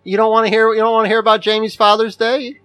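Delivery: mock indignation. Teasing mock challenge to co-host.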